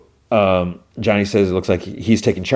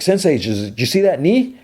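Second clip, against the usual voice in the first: much higher, eager question; excited student; 8 semitones higher than usual. Retold or imitated. Miguel asking his sensei about his knee, excited. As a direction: beam with pride over the move.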